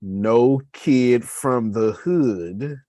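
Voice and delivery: put-on slow, pointed emphasis on "no kid from the hood"; air-quote emphasis. Shown as a demonstration. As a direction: lean on every word like it's in quotes. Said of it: "air quotes again".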